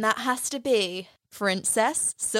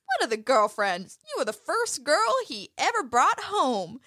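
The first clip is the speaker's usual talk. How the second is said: put-on Texas accent; 3 semitones higher than usual. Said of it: "she's really good at that Texas accent".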